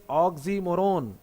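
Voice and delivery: "oxymoron" in four even beats, "ok-si-mo-ron"; split into syllables. Shown as a demonstration. Teacher counts four syllables for students, segmented "ox-y-mo-ron". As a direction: give each syllable of "oxymoron" its own beat. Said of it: "There are four syllables in this".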